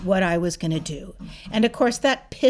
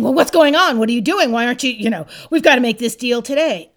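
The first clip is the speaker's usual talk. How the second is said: pushy salesman calling after her; 4 dB louder, faster than usual. Retold or imitated. Salesman chases her out of showroom.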